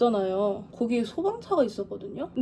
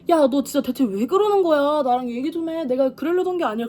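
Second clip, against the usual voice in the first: pleading call; 4 semitones higher, 4 dB louder than usual. Retold or imitated. Chasing car, pleading.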